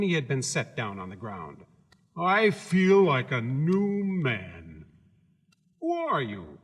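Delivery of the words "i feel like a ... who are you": cheerful scarecrow voice. Acted.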